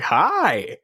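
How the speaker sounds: curt hi. Retold or imitated. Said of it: "extremely other way around it".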